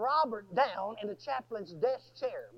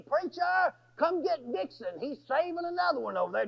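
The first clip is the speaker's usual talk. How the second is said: higher-pitched imitation of guards calling; retold call for help; urgent summons; 5 semitones higher than usual. Guards calling the preacher to fetch Dixon, urgent summons.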